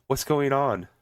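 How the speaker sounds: stilted amateur acting; reading from cue cards. Mocking an amateur actress's delivery, cue-card reading. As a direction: deliver it like lines read off to the side. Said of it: "like she's reading from cue cards".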